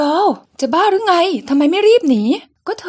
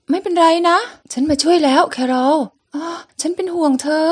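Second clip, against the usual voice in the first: voicing each character in turn through a comic; lively comic-book reading; comic read aloud. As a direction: act out the comic panels one by one. Reads comic, voicing all characters.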